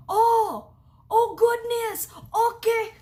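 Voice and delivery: mock-scandalized maid backing off; flustered shock. Housekeeper seeing the couple, high flustered shock.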